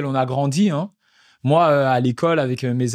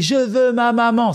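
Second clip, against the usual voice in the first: put-on high, slow wailing child; imitating a screaming toddler; 8 semitones higher, 3 dB louder, slower than usual. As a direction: wail for mommy like a three-year-old. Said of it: "il commence à hurler".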